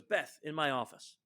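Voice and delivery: boss's curt summons. Retold or imitated. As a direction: call her in like the boss. Boss summons employee in retold story.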